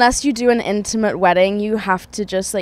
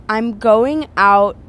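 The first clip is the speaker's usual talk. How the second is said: careful, slow attempt at an American accent; 4 dB louder, much slower than usual. Shown as a demonstration. Guest tries on request, tentative American accent. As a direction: try an American accent, word by word. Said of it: "can you do your American accent".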